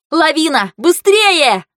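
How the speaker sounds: high, frantic warning shout; panicked alarm call, climbing in pitch; alarmed cry. A narrator's reading. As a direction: cry out danger and rush everyone. Avalanche alarm.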